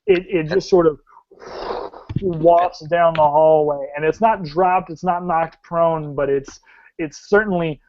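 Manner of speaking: animated scene setting with drawn-out action words; dramatic tabletop storytelling; game master narration. Acted. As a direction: paint the action vividly, stretching key verbs.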